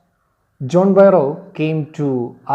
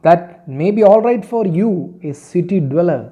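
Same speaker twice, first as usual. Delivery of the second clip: mild mock anger, higher and louder at first; retold anger; 4 semitones higher, 5 dB louder than usual. Teacher quotes farmer retorting to a city dweller, mildly angry. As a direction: act out an annoyed retort, voice raised. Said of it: "John Barrow was also angry".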